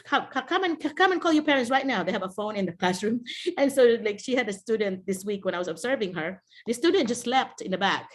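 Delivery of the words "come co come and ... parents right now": stern order. Retold or imitated. Teacher ordering student to phone parents.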